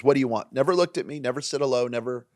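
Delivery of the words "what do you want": curt, uninterested what do you want; a bored bartender barking at a customer; blunt demand. Retold or imitated. Imitated bartender, flat and curt. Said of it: "It was".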